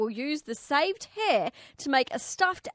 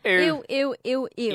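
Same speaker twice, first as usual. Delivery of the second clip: disgusted ew. Shown as a demonstration. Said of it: "I read it as ew".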